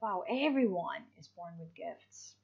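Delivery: whispered wow, stress on everyone; hushed wonder at everyone; amazed whisper. Shown as a demonstration. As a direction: breathe it like a small discovery. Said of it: "It is more like".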